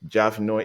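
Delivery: "Jav Nyoy" said as "Jav Noy", plain N; simplified pronunciation. Shown as a demonstration. Guest easing his name for people outside his tribe, simplified pronunciation. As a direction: make "Nyoy" an easy "noy", dropping the glide. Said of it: "it becomes easier for a lot of people".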